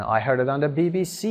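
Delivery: B B C with weight on final C; stress on last letter. Shown as a demonstration. Teacher repeating the example for learners, last letter C stressed. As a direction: land on the C ending B B C, slowly.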